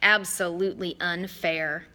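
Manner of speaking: Mister D pouting about his punishment; pouting kid. Acted. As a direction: sulk like a little kid. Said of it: "sounded about six years old, like a pouting little kid".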